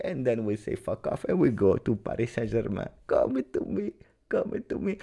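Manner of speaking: hushed Italian coach impression, pitch jumping about; Antonio Conte. Coach luring a player away from his club, soft mock pleading. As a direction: coax like a coach on a secret call. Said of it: "Antonio Conte, he called him himself".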